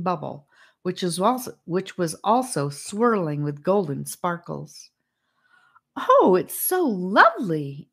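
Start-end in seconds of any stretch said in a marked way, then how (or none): 6.0-7.9 slow, sighing admiration; a touch of breathless wonder, slowed. A narrator's reading. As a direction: sigh it out in wonder. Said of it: "Annika sighed".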